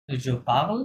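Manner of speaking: "Je parle" as a question, rising at the end; questioning intonation. Shown as a demonstration. Teacher showing students a spoken question, questioning intonation on "Je parle". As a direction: lift "parle" to turn it into a question. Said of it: "এরকম intonation".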